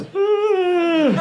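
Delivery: long, high held yawn noise; mock an attention-seeking yawner with a high drone; exaggerated vocal yawn; noisy yawn. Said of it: "He kept yawning out loud".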